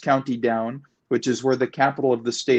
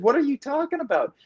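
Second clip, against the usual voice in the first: mock disbelief in a raised voice; retold bafflement; 8 semitones higher, faster than usual. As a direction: replay your baffled reply, pitched well up. Retelling own baffled reply to officer.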